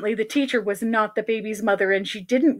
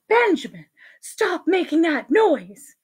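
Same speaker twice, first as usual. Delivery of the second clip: slow, higher mild scolding; lightly voiced reproving teacher; 5 semitones higher than usual.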